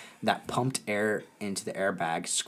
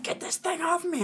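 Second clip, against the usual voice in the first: mock whine. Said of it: "I was like".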